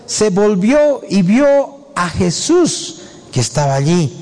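slow, deliberate Bible reading; scripture reading. Acted. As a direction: read the verses out, drawing out phrase ends. Reads scripture aloud.

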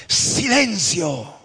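slow, drawn-out command. Acted. Jesus slowly commanding the storm to be silent. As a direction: stretch out the order calmly.

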